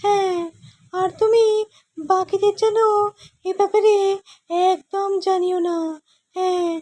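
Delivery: high cartoon scientist voice; a high-pitched, fussy old inventor; Gopal's scientist voice. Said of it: "গোপালের বৈজ্ঞানিকের ভয়েসটা করব".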